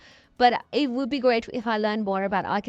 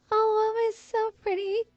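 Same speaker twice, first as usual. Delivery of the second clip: much higher, gushing over the room; excited gush; 11 semitones higher than usual. Real, not acted. Gushing to viewers over her pretty Sims build, excited. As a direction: squeal it out with delight. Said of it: "I'm getting really excited".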